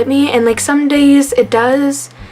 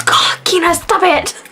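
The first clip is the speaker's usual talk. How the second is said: high-pitched imitation of a laughing aunt; aunt's laughing protest; 7 semitones higher than usual. Niece imitating her aunt telling her mom to stop, high and laughing. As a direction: squeal it out like a giggling aunt.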